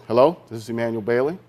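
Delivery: crisp, businesslike phone greeting, a bit fast; mildly put-on professional voice answering an important call. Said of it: "in my very professional voice".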